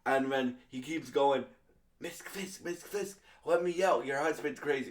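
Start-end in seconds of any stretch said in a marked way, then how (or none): 2.0-4.9 high pleading. Retold or imitated. Adam pleading with Vanessa, voiced.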